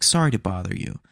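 light Valley Girl accent imitation; a hint of Valley Girl sweetness. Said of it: "She had a Valley Girl accent too".

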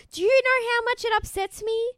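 high, loud whiny mockery; mocking whiny husband. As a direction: whine it like a sorry husband. Mocking Mike after reading quote.

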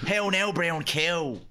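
elocution drill. Shown as a demonstration. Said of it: "Repeat after me".

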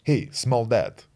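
put-on slow deadpan Russian-accented dog; emotionless Russian accent. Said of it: "he's very emotionless".

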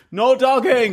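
shouted. Retold or imitated. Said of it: "turns to us and goes".

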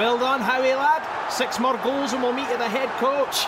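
high, loud congratulation to a player; jubilant shout. Acted. Fan praises Howie for scoring, jubilant shouting. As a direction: call out in triumph.

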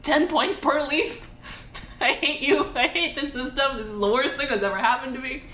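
high, indignant complaint; outraged whining. Retold or imitated. Venting at the system, high and outraged. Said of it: "He's like".

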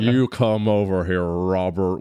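imitating a flirty summons, rolling into the name; mock come-on. Host mimicking guest calling the husband over, mock-flirty. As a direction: put on a teasing seductive call. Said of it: "more like a sexual come on".

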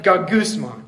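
"Gagusmon" said as GAH-goos-mon with a murmuring growl; "Gagusmon" sounded out for the church as a complaint; grumbly Greek word. Shown as a demonstration. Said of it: "Doesn't that even sound like you're grumbling".

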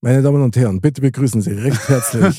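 booming showmaster intro, drawn out at the end; grand entrance announcement. Acted. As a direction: announce him like a game show host. Announces friend's joke like showmaster.

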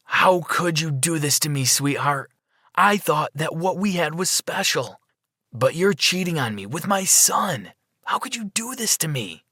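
mildly acted tearful hurt, high-pitched; cried. A narrator's reading. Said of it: "he cried".

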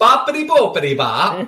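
put-on playful Italian-accent nonsense; mock Italian gibberish. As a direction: echo it in cartoon Italian, amused. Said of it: "You gotta say boppity boopity".

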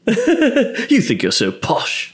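high, slow, drawn-out mockery; mocking taunt. Friend mimics TV snobs sneering at posh, mocking. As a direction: tease it out high through a laugh.

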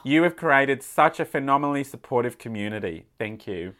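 letter read in a put-on Australian accent; playful Aussie accent. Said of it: "read this in my Australian accent".

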